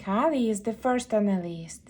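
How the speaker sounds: hushed whisper. Acted. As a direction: whisper it like a secret bedtime mission. Whispered reading to child.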